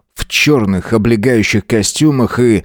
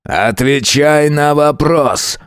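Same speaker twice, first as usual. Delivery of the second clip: angry demand; 6 semitones higher, much slower than usual. A narrator's reading. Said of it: "я его разозлил".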